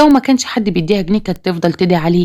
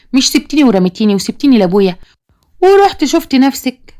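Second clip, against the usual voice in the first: bitter accusation; 4 semitones higher than usual. Acted. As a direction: fling the blame back at her. Daughter accuses mother of abandoning her.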